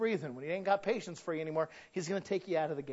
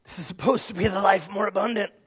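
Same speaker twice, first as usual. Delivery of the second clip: louder, forceful preaching; raised, insistent pulpit voice; emphatic repeat; 3 semitones higher, 9 dB louder than usual. Real, not acted. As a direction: drive it home with more volume.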